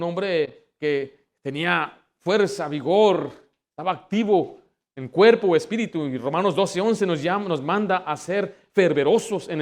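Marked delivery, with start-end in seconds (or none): none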